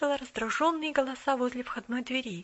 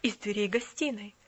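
stern lady, louder; stern mistress; 7 dB louder than usual. Acted. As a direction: threaten from the doorway. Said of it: "грозно прозвучал голос".

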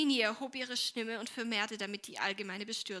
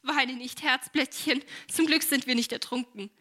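put-on louder, higher comforting of a child; buoyantly jolly the little one along; cheery consoling; 3 semitones higher, 8 dB louder than usual. A narrator's reading. Helene consoles crying Minnie after the spill, cheery.

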